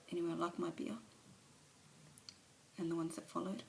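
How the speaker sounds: an alcoholic owning up, subdued; Alice's confession. Acted. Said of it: "a monologue from one of, of her movies".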